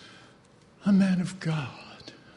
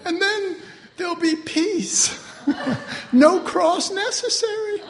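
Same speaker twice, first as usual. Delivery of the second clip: mock relief; 9 semitones higher than usual. Mock smug resolution, laughing.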